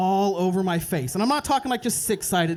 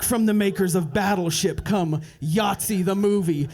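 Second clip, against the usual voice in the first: trailer announcer. Retold or imitated. Movie trailer parody.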